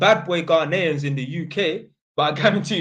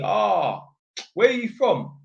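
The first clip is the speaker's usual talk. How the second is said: higher quoted question; lightly put-on higher voice asking; quoting them; 6 semitones higher, 4 dB louder, slower than usual. Streamer retelling the homeowners asking where he's from, higher quote. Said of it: "they said to me".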